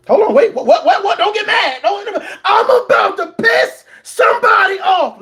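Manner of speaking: laughing through the words, pitch climbing; cracking up at his own point; giggling as he warns the listener. Real, not acted.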